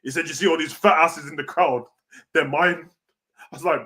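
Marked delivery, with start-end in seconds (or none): 0.3-2.9 Scott Steiner impression. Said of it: "he said it just like Scott Steiner".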